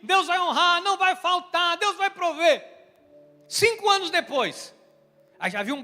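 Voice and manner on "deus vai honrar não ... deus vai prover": emphatic pastoral reassurance, louder; fervent encouragement. Retold or imitated. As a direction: build faith with every word. Bishop retells his encouragement.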